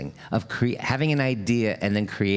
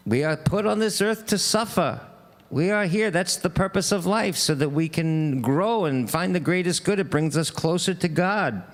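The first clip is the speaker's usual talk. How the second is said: higher-pitched, lightly voiced rabbi; 4 semitones higher than usual. Rabbi answers the man in the well, lightly voiced sermon. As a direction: lightly play a rabbi pronouncing on life. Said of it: "a Jewish rabbi walks by".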